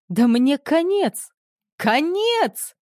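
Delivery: high desperate yell, rising to a scream; host panics in front of the guests, yelling. A narrator's reading. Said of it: "заорал он".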